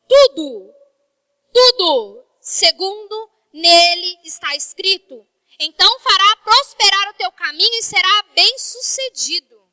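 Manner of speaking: slow, loud solemn reading of the verse; scripture reading. Acted. Preacher reading Joshua to the congregation, slow and loud. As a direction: proclaim the verse to the church.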